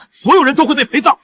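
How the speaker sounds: high, loud threat; angry shout. Acted. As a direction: yell the warning. Husband threatening wife.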